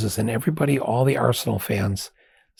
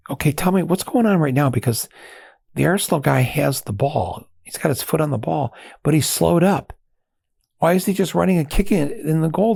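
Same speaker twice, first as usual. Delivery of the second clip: baffled question; 6 semitones higher than usual. Retold or imitated. Confused American asks British fan.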